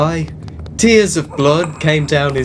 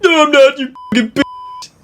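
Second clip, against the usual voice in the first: angry shout; 13 semitones higher than usual. Acted. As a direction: scream it at her. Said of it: "he shouted angrily".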